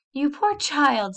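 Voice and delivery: slow, high soothing sympathy; tender pity. A narrator's reading. Mother comforts crying Annabel, slow and tender. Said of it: "With a good deal of tenderness".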